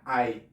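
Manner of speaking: "ai" said as a glide from ah to ee; vowel demo ai. Shown as a demonstration. Teacher showing how German EI sounds, gliding ai. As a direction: model the diphthong "ai" clearly. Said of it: "Pero si va seguido de una I".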